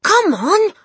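high, loud shout; rallying cry. A narrator's reading. Matilda leads the family in, rallying shout. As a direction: yell to lead a charge. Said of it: "Matilda cried".

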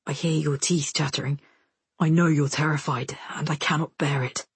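low, hushed man's voice; tender. A narrator's reading. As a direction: plead gently, close by. Soldier comforts terrified girl.

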